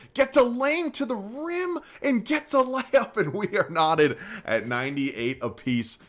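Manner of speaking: high, slow, hyped play-by-play call; excited call. Real, not acted. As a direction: draw out the tying layup like a broadcaster.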